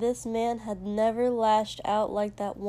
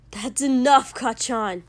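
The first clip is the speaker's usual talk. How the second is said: firm rebuke; 3 semitones higher, 7 dB louder than usual. A narrator's reading. Helper standing between them, firmly stopping his friend. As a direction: step in and cut him off.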